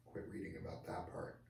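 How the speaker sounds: hushed whisper, no voice. Real, not acted. Backing away from the racy part of the article, whispering. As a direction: whisper it like a secret.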